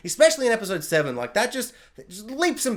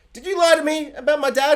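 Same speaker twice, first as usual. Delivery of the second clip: lightly put-on, higher accusing voice; a hint of a betrayed killer; acted villain voice; 8 semitones higher, 4 dB louder than usual. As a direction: confront him with a hurt question. Acting out Black Noir's confrontation.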